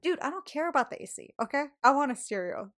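retold rant to the installer, rising loud; hammed-up insistence; mock exasperation. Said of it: "I'm like".

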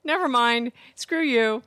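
high-pitched mock sign-off; mock brush-off. Co-host mimicking Alexa hanging up, high and dismissive. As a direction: imitate a device dismissively hanging up. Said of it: "She just went".

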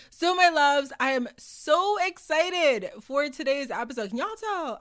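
high, gushing burst of excitement; excited yelling. Real, not acted. Host greeting loyal listeners before a big guest episode, excited yelling. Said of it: "I'm yelling. That's how y'all can tell when I'm excited".

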